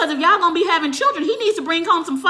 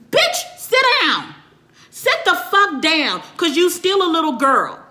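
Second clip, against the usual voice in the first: scolding; 3 semitones higher, slower than usual. Real, not acted. Scolding outburst.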